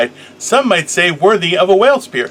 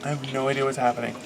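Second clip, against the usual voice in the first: whispering; 3 semitones lower, 12 dB quieter, much faster than usual. Real, not acted. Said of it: "Why are you trying to whisper?".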